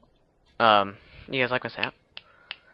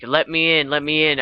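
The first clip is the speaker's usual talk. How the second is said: desperate plea; 3 semitones higher, 3 dB louder than usual. Retold or imitated. Acting man banging on window.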